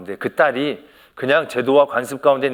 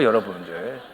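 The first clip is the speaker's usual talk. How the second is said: normal talking voice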